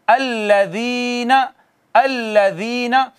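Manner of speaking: slow, drawn-out chanted recitation; Quran recitation. Shown as a demonstration. Teacher reciting the verse for students, slow chanted recitation. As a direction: recite each word slowly, stretching the vowels. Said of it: "इसको नरमी से पढ़ते हैं".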